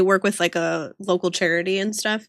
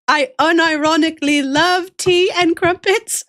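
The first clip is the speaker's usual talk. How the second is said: emphatic declaration; 6 semitones higher, 4 dB louder than usual. Real, not acted. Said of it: "okay, Zyphos?".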